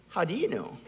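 imitating a little kid's cheeky challenge; child with attitude. Toddler questioning his father's answer, with attitude. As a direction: challenge Dad like a three-year-old. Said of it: "he says it with an attitude".

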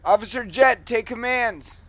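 loud call through a megaphone. Real, not acted. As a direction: announce it over the loudspeaker. Handing over the loudspeaker.

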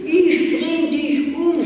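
sehr laut, viel höher, langsam und außer sich; rasender Schrei. A narrator's reading. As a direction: schrei es voller Hass heraus. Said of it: "schrie ich". (das Mädchen würgt Pella und schreit voller Hass)

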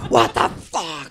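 imitated exasperated outburst; frustrated. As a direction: act out someone fed up with a failed stunt. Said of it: "he gets so frustrated".

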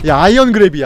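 loud, indignant cry at the grab; indignant shout. Real, not acted. Streamer shouting at the killer's iron grab, indignant. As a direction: blurt it out in disbelief.

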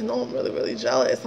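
imitating him, in a near-whisper; mock his sheepish confession under the breath. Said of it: "Yep, that's my husband".

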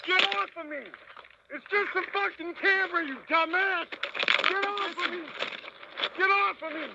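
desperate while pinned down; panicked struggle. Real, not acted. Being punched and held down.

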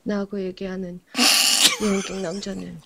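put-on tense movie line in Yanbian accent. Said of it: "연변 말투".

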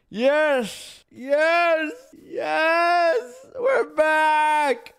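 loud excited yes, rising; triumphant cheering. Real, not acted. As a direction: celebrate it out loud. Finds his way back.

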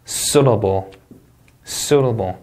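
"suitable" with stress on SUIT, then dropping away; first-syllable stress. Shown as a demonstration. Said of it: "이름적 강세 되겠고요".

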